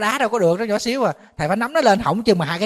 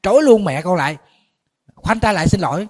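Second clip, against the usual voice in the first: raised, higher scolding in a retelling; stern retold order; 3 semitones higher, 4 dB louder than usual. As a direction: lay down the law to a toddler, acted lightly. Acts out scolding a defiant child.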